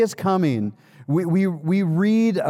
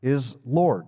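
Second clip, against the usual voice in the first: halting, with a pause after Jesus; leading group recitation; slower than usual. Shown as a demonstration. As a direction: say it piece by piece for others to repeat. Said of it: "Would you say that with me?".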